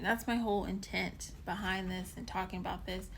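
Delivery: talking while chewing candy; mouth full. Real, not acted. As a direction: speak around a hard candy. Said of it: "Sorry, I'm chewing on this".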